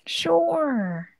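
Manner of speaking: soft breathy whisper. Acted. Streamer whispering to the crying caller in a hushed whisper. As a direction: whisper it back like a secret.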